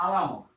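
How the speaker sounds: আলামত, with ল in place of ন, said loud; distorted pronunciation. Shown as a demonstration. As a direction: say আলামত clearly with an l. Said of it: "আমি যদি এইভাবে বলি দেখেন". (ল দিয়ে জোরে আলামত)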